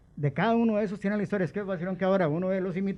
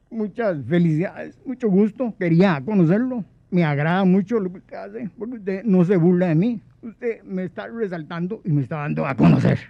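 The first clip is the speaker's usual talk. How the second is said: imitating Guillén; 2 semitones higher, 7 dB louder than usual. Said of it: "yo lo imitaba". (imitando la voz aguda del director con pólipos)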